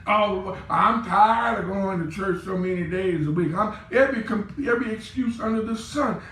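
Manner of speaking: whiny mock churchgoer; mock complainer. Pastor mocking complaining church folks, whiny. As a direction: imitate a grumbling member. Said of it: "all I'm getting is complaints".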